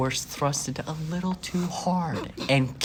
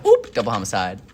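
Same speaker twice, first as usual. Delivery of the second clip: flippant quip; 3 semitones lower, 6 dB louder than usual. Retold or imitated. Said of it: "literally somebody goes".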